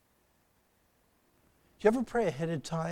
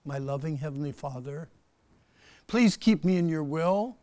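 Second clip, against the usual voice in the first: gentle model prayer, unhurried; 5 dB louder than usual. Shown as a demonstration. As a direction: show them how a simple prayer sounds. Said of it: "maybe it'd be something like this".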